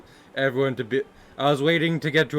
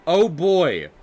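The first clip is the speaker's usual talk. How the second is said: stereotypical white American; 4 semitones higher than usual. Acted. Streamer mocking bland American eaters, stereotypical white American voice. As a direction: ham up a bland Midwestern American accent. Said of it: "this is the American stereotype right here".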